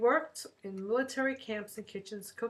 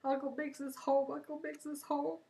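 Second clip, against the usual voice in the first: excited calling out; 6 semitones higher than usual. Retold or imitated. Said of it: "yelling out all the way".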